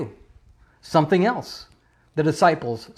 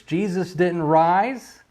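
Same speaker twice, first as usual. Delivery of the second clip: slow, higher mocking voice of doubt; voicing the doubt; 4 semitones higher, slower than usual. Shown as a demonstration. Pastor voices the doubters' claim, slow and mocking. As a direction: drawl it out like the tempter. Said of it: "aimed at doubt and contradiction".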